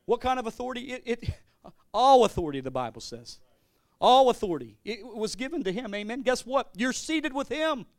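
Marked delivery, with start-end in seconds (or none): 1.9-2.6 loud proclamation. Real, not acted. Preacher proclaiming authority. 4.0-4.8 loud proclamation. Real, not acted. Preacher repeats proclamation.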